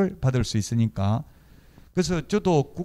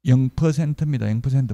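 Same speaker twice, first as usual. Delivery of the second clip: louder, landing the answer hard; loud reveal to the class; emphatic answer; 6 dB louder than usual. Real, not acted. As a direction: announce the right answer with weight.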